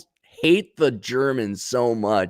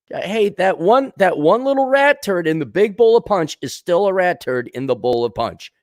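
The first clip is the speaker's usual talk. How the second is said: high, loud, indignant ranting; worked-up rant; 8 semitones higher, 4 dB louder than usual. Real, not acted. Comic ranting to the audience, worked up and loud. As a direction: build the rat turd point up.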